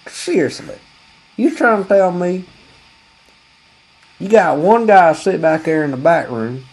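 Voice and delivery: high, baffled disbelief; mock outrage at the store setup; incredulous. Customer baffled at the shoe clerk. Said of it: "I said".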